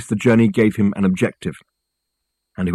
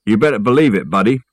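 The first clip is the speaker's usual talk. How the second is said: lightly put-on movie-gangster voice; barely different amateur film-star impression; Jimmy Cagney; 4 dB louder than usual. The speaker proving his range to a doubter, mild Cagney impression. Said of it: "This is my Jimmy Cagney voice".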